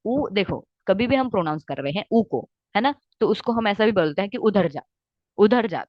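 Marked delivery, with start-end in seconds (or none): 4.4-5.9 उधर said with a quick, short उ; short u demo. Shown as a demonstration. Teacher showing students a short vowel, brisk and clipped. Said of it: "मैंने बहुत ही लंबा pronounce किया है क्या? नहीं".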